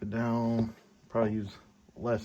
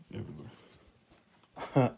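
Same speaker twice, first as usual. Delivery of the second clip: slow, stretched everywhere; drawn out; much slower than usual. Real, not acted. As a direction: drag the word out slowly. Repeats the word, stretched out.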